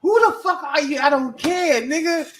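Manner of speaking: sharp, high, loud challenge; angry yell. Retold or imitated. Arrested man yelling at the officer, angry. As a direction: bark it at the cop. Acted confrontation, cop or suspect.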